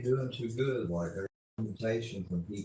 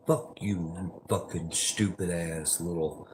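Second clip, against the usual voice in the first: whispered insult; 2 semitones lower than usual. Real, not acted. Insult hissed under breath.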